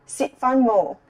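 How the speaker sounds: ordinary delivery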